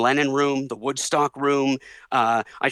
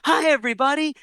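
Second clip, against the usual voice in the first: very high pop star impersonation; high, airy mock-celebrity greeting; a famous pop singer; 12 semitones higher than usual. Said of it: "And he goes".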